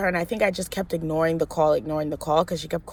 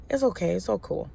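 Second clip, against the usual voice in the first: softly dismissive, trailing down; imagined easygoing reply; 6 dB quieter than usual. Pretend. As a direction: let it go quietly. Imagined forgiving, easygoing reply today.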